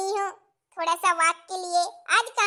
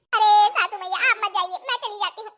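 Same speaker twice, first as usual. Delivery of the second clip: put-on higher, louder fretting young bride; 4 semitones higher, 7 dB louder, faster than usual. New bride alone in kitchen, fretting in high voice. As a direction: fret like a clumsy new bride.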